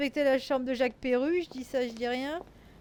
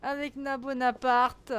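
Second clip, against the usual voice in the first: laughing; slower than usual. Real, not acted. Laughing at the argument.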